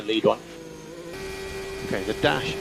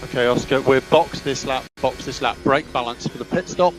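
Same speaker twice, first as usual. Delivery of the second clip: crackly team radio, engine noise behind; short radio calls to the driver; clipped radio over engine roar. Real, not acted. Team radio during race.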